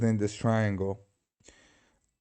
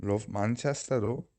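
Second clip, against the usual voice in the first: mock Manchester accent, softer; British accent; 5 dB quieter than usual. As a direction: attempt a Mancunian accent. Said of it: "Is that a good accent?".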